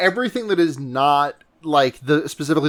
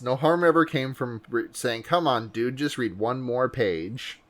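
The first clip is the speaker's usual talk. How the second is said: modern baseball voice; 3 semitones lower, 6 dB quieter than usual. Retold or imitated. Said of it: "Modern baseball voice".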